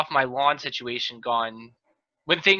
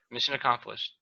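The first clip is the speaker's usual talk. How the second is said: softer muttered repeat; quiet echo; 4 semitones lower, 8 dB quieter than usual. Shown as a demonstration. Host repeating the closing line to himself, softly. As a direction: say it again under your breath.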